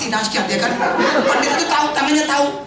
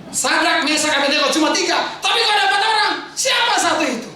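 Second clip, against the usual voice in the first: emphatic preaching; 6 semitones higher than usual. Real, not acted. Preaches the furnace story.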